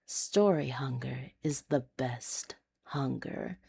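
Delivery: soft unvoiced hush to the listener; whisper. Real, not acted. Host whispering a teaser to listeners, whispered. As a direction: breathe it like a secret.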